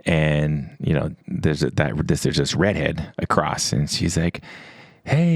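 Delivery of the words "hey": high-pitched, lightly imitated Australian greeting; Australian accent. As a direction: call out a drawn, high Aussie hello, mimicking her. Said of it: "it's Australian accent".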